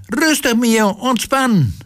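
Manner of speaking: very high, drawn-out urging; high, slow cry from the audience; calling out. A narrator's reading. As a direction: call slowly and high to make them relax. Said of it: "riep ze".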